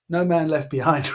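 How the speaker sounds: a rallying cry, half joking; hammed-up battle cry; mock heroic shout. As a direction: shout it like a war-film slogan. Heroic slogan down the phone.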